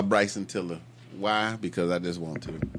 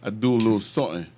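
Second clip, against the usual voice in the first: dramatic deep voice; much faster than usual. Acted. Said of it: "Why is your voice getting deeper".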